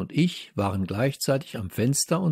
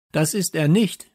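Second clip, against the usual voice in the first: loud, higher angry denial; shouting at her; 7 semitones higher, 5 dB louder than usual. A narrator's reading. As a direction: shout back at the girl. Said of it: "schrie ich sie an".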